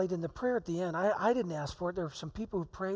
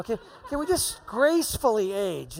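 laughing; 3 semitones higher, 8 dB louder than usual. Real, not acted. Joking about aging, laughing.

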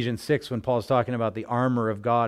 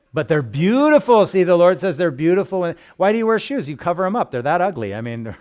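higher, louder, insistent proclaiming; emphatic preaching; 6 semitones higher, 9 dB louder than usual. Real, not acted. Pastor to congregation, fervent emphatic preaching. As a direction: preach it with rising fervor.

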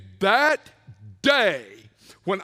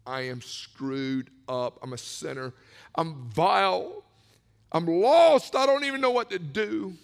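confession; 3 semitones lower than usual. Retold or imitated. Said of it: "And I said".

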